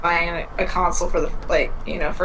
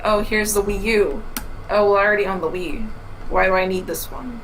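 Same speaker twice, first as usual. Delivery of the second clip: flat, quick brush-off; unimpressed. Pretend. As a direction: shrug the product off. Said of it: "instead of you say".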